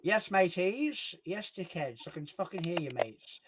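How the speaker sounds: put-on light Hull accent; drawn-out Hull greeting, easing off; Hull accent character. Character greeting his mates, light Hull accent. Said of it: "taken the accent and made my own character".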